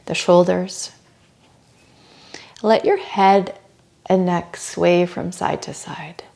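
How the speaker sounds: soft, unhurried yoga cueing; guided relaxation. Real, not acted. Yoga teacher guiding students to soften face and jaw, soft guided relaxation.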